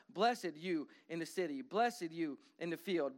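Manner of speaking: "blessed" leaned on at each line start, slow; stress on blessed. Acted. Repeated blessings read slowly.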